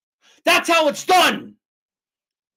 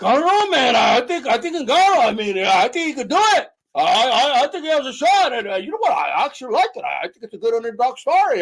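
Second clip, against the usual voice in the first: lightly voiced waffling fan, pitch swinging; mock hesitant fan. Streamer mocking fans who backed Ngannou, mock hesitant. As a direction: stammer through it like an unsure fan.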